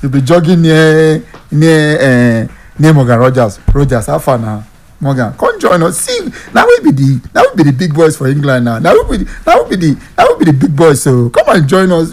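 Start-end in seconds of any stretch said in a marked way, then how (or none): 5.0-12.1 playful coaxing. Acted. Acts out player coaxing Morgan.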